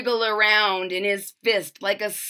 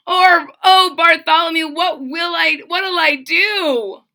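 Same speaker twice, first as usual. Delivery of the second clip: wailing; 7 semitones higher, 7 dB louder than usual. A narrator's reading. Trumpeter pleading to Bartholomew, high panicked wail. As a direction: beg for help in a wail. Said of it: "the trumpeter wailed".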